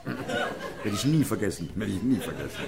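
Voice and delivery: laughing. Real, not acted. Laughing at the memory.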